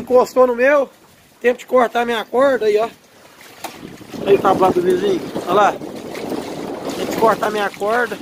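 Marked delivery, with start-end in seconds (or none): 5.7-8.2 stretched out slowly, exasperated; slow drawn-out complaint. Real, not acted. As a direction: drag each word out in disbelief. Repeats complaint about tangled rope. (reclamando devagar, arrastando as palavras)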